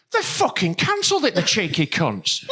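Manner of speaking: mock furious. Retelling a friend's fury at the cancelled order, mock indignation. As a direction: imitate his outrage, close to cracking up. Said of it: "He got fucking furious".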